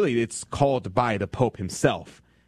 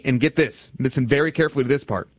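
normal talking voice

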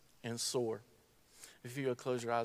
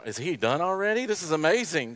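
surprised congregant; 5 semitones higher, 7 dB louder than usual. Acted. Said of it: "some of you are going".

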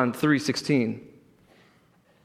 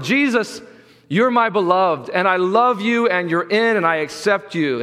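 moderately raised voice from heaven, settling at the end; loud, powerful proclamation; 3 semitones higher than usual. Acted. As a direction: proclaim love to everyone as God. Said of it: "so loud and powerful proclaims".

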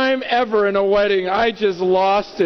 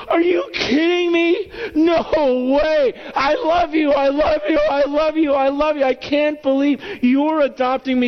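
high, excited cries of amazement; imitating April's ecstatic outburst; overjoyed disbelief; 9 semitones higher than usual. Believer told they are adopted by God, overjoyed disbelief. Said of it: "should be like April this morning, going".

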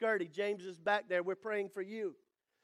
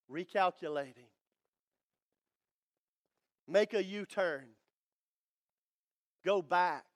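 lower, flat sat-nav announcer voice; GPS voice; 4 semitones lower than usual. Pretend. Preacher mimics the GPS telling a lost driver, lower sat-nav voice. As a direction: read it like a car navigation system.

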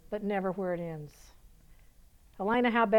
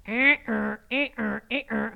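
short repeated grunted machine noises; imitated mechanical ratchet; slower than usual. Shown as a demonstration. Preacher taking the governor off the heart, imitated mechanical noise. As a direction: mimic a tool working in quick bursts.

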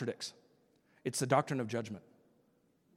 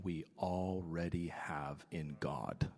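hushed whisper, much softer; 10 semitones lower, 8 dB quieter, slower than usual. Real, not acted. Preacher whispering to the congregation about being made like God. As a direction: lean in and whisper the point. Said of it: "preacher drops to whisper".

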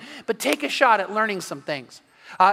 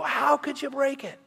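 mock scolding; 6 semitones higher than usual. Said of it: "what he didn't do was go".

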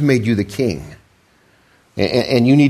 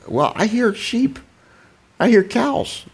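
demanding; 10 semitones higher, 3 dB quieter, slower than usual. Retold or imitated. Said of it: "Samuel demanded".

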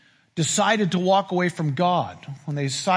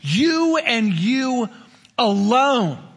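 devil voice; 5 semitones higher, 3 dB louder, much slower than usual. Acted. Voicing the devil, emphatic.

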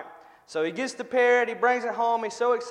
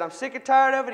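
fed up, acted; 5 semitones higher, 5 dB louder than usual. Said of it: "And he said".

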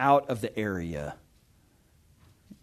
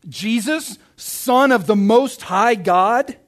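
restrained shout; 5 semitones higher, 5 dB louder, slower than usual. A narrator's reading. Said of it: "he shouted at the top of his voice".

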